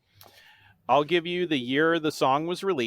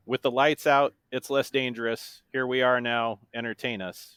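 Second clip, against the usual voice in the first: lyrics recited as dry prose; deadpan monotone. Shown as a demonstration. Quizmaster gives an example lyric, in a monotone. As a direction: read song lyrics without singing, evenly. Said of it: "said in my best monotone voice".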